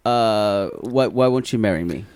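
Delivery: light hint of his accent; low-key accented fiancé; playing Usman. Host playing Usman pleading with Lisa, light accent. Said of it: "I will play Usman".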